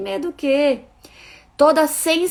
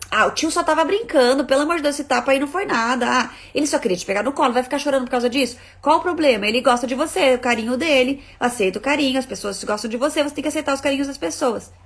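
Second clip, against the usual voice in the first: dismissive adult; 3 semitones higher, faster than usual. Retold or imitated. Relative to a crying child, fast dismissive scold.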